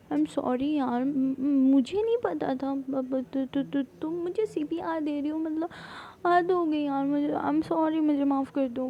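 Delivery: frantic apology. Retold or imitated. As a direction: beg her friend loudly to forgive you. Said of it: "بولتی ہے کہ کیا". (دوست سے اونچی آواز میں گھبرا کر معافی مانگنا)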